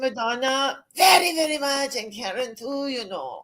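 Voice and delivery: put-on playful Germanic accent. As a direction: chat in a mock German accent. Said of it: "why don't we speak in accents".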